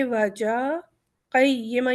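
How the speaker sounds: slow recitation, a pause between عوجا and قیمہ; recited with a stop. Shown as a demonstration. Teacher showing students where to stop, slow recitation. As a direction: draw out عوجا slowly, stop, then قیمہ. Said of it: "ہم رک جائیں گے عوجا".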